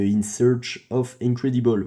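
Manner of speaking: slogan Asus avec un accent anglais approximatif, lent; réciter lentement le slogan en anglais à la française. Shown as a demonstration. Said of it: "Magnifique accent anglais qui n'a toujours pas changé". (slogan dit lentement avec un accent anglais moyen)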